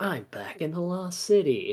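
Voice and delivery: all-knowing, high announcement. Retelling a game moment as Garrett: Garrett impression. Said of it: "Garrett's like".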